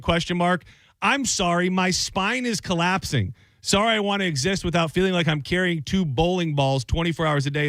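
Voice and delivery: expressive read of a fed-up listener's letter; lightly dramatized advice-column letter. Acted. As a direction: voice the writer's complaint with mild exasperation.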